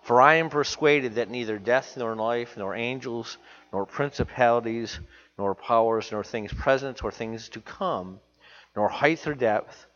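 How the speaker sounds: reading the Bible aloud from the pulpit; scripture reading. Acted. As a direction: read the verse out to the congregation.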